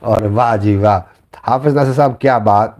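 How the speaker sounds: ordinary talk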